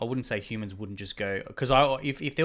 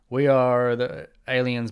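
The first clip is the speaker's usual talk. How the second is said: slow, louder mock alien proclamation; alien announcement; 5 dB louder, slower than usual. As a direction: lightly play an alien addressing humanity. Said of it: "if an alien came here now and says".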